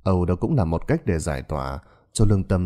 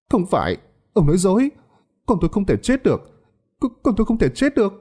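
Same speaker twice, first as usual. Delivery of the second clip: desperate mother; 12 semitones higher, faster than usual. A narrator's reading. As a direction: refuse to believe the child is dead. Grieving mother denies death. (người mẹ chối bỏ trong tuyệt vọng, giọng cao)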